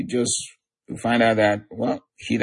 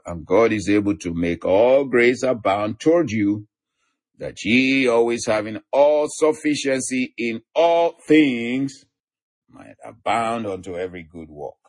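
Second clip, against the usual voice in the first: emphatic scripture reading. Acted. Preacher reading a promise of sufficiency to listeners, emphatic.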